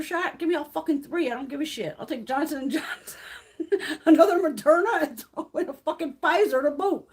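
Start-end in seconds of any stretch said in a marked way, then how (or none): 3.6-7.1 louder and higher, bursting with laughter; laughing. Real, not acted. Laughing at her own eagerness to get every vaccine. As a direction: laugh the brand name out.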